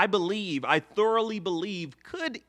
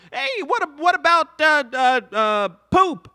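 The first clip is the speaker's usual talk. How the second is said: higher and louder, stammering tease; mock Lapis voice; 8 semitones higher, 7 dB louder than usual. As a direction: Lapis egging Ruby on about poop.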